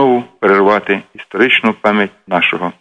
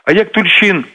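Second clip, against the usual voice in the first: higher-pitched rush of eager questions; excited chatter; 5 semitones higher than usual. Retold or imitated. Friends arguing history in the office, excitedly retold. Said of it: "тут всіх як зірвало".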